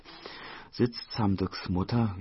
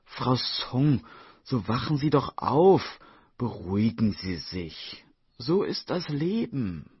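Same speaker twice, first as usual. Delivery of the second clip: alarmed calling out; 4 semitones higher, 4 dB louder than usual. Acted. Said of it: "bittet erschrocken um ein Glas Wasser und ruft".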